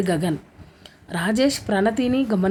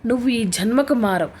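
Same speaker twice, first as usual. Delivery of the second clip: mild tearful shout. Acted. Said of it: "గట్టిగా అతని మీద అరిచింది ఏడుస్తూనే".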